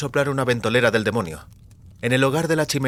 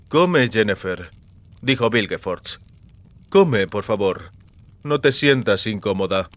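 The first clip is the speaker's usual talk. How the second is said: slow, falsely courteous host; unhurried mock politeness; Vilgefortz's voice; slower than usual. Vilgefortz urges his prisoner to eat, slow and courteous.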